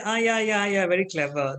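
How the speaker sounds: mock praise, sarcastic. Shown as a demonstration. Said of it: "don't even be sarcastic".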